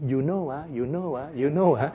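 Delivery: repetitive, low-pitched verbal tic; filler-word imitation. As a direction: imitate someone leaning on filler words. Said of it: "That is noise".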